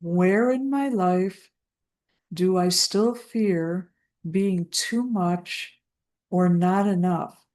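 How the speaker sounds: slow, careful delivery with pauses between phrases; unhurried dictation, phrase by phrase; slow repeat. Real, not acted. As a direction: repeat it slowly so each word can be caught. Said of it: "repeat that again so you can catch every word".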